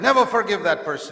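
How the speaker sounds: loud, high-pitched command; vehement urging. Acted. Unforgiving giant to the wronged Christian, vehement command. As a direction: drive the grudge home forcefully.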